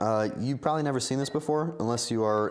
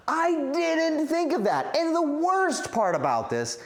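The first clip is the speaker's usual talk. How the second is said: exasperated outburst; 11 semitones higher, 3 dB louder than usual. Real, not acted. Streamer lamenting an accidental burger look to chat, exasperated.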